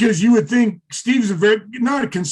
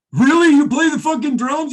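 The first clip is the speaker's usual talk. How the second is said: high, loud incredulous question; retold disbelief; 8 semitones higher, 3 dB louder than usual. Musician doubts his friend can drum, incredulous. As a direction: blurt it out in high-pitched amazement.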